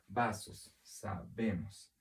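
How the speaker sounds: "Vasos, sabemos" separado, con "sabemos" muy lento; sílabas tónicas marcadas. Shown as a demonstration. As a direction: alarga BE en "sabemos", como demostración. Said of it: "La sílaba tónica es vemos". ("sabemos" pausado, marcando la sílaba tónica)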